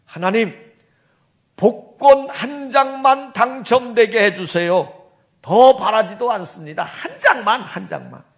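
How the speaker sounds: pleading prayer. Retold or imitated. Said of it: "이렇게 기도를 했답니다".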